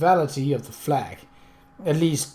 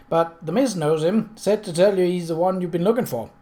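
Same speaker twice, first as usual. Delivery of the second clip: put-on high, loud young boy voice; eager child correcting; excited boy; 4 semitones higher, 3 dB louder than usual. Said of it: "he said".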